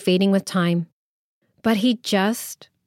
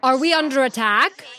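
alarmed guest; 5 semitones higher than usual. Acted. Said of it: "they shouted".

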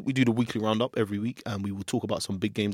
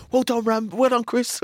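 higher, slightly louder mock praise; put-on high cheer for a teammate; mock congratulations; 12 semitones higher, 4 dB louder, slower than usual. Reserve keeper congratulating teammates, mock praise.

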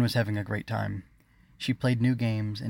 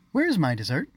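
raised, louder, imperious question; haughty demand; 6 semitones higher, 5 dB louder than usual. A narrator's reading. Spoiled queen to her servants, haughty demand. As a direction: demand it with nose in the air. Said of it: "with her nose up and chin forward".

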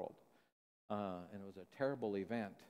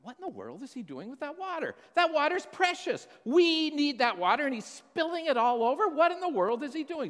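much higher and louder, a frustrated father exploding; angry dad; 11 dB louder than usual. Retold or imitated. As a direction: let the farmer's anger burst out, high and loud. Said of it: "And he thought".

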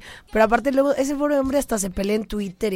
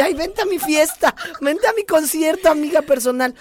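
lightly hammed-up eager invitation, higher; mock party invite; 6 semitones higher than usual. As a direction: play a desperate host inviting everyone. (invitación fingida y exagerada, un poco más aguda)

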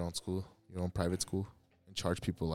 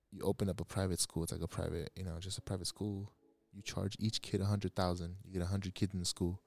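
whispering; 6 dB quieter than usual. Real, not acted. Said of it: "Why are you whispering?".

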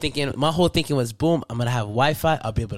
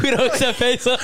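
Mexican cop voice; 8 semitones higher, 4 dB louder than usual. Retold or imitated. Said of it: "This nigga said".

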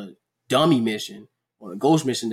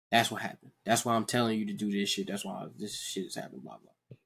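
softer, confiding talk; quiet explanation; 4 semitones lower, 6 dB quieter than usual. Retold or imitated. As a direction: tell him the truth gently, quieter. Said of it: "all B M had to do was just tell him".

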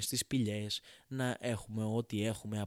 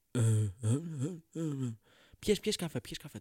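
grunting caveman; 2 semitones higher, slower than usual. Acted. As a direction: grunt like a caveman who can't talk yet. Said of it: "του κάνει ο Γιάννης Homo habilis". (μουγκρητά ανθρώπου των σπηλαίων)

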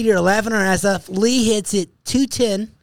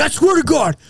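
raised-pitch mock indignation; mad; 5 semitones higher than usual. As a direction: imitate a paranoid friend insisting on his complaint. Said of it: "Jeff gets so mad".

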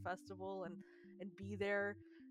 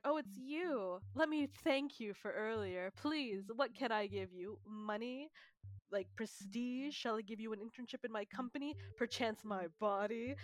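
lightly overplayed, slow, drawn-out offer of thanks; a hint of a grandly grateful suitor; mock effusive salaryman. Retold salaryman offering thanks too eagerly.

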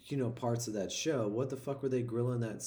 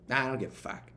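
Boston captain impression. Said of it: "your captain who is from Boston".

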